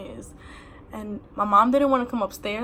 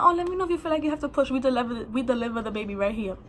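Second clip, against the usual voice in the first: mock-calm, matter-of-fact reassurance; mad calm; faster than usual. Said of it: "She's mad calm, too".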